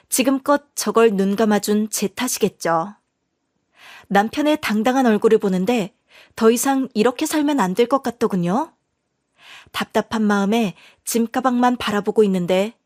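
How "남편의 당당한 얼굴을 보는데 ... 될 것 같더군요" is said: ordinary delivery, nothing marked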